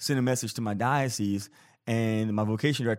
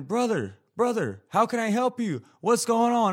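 1 imitating the deacon; 11 semitones higher, 3 dB louder than usual. Deacon calls from the water.

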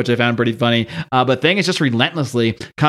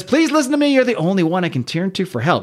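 higher, begging voice; mildly hammed-up plea for help; pleading villain; 5 semitones higher than usual. Puppet Master begging the Thing for help in a higher pleading voice.

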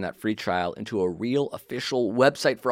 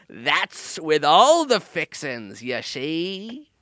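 pirate voice; 4 semitones higher, slower than usual. Acted. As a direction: yell it like a pirate. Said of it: "talking like a fucking pirate".

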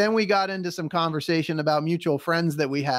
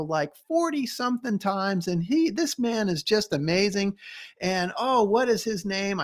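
higher, bubbly retelling of the agent; eager, pitched-up chatter about the famous climber; excited gate agent; 4 semitones higher than usual. Retold or imitated. Gate agent telling the traveler about a local climber, excitedly higher. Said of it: "she got so excited".

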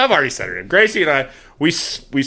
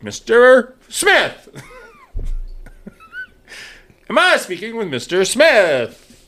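very slow, higher, drawn-out sales pitch; mock telemarketer; 9 semitones higher, much slower than usual. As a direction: stretch the name like a pushy caller. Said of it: "it's like".

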